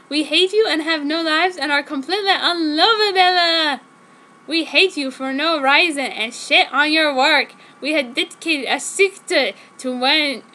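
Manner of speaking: hammed-up monster rant; hag voice. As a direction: spit out the confession like old demons. Demon hags confess their hatred.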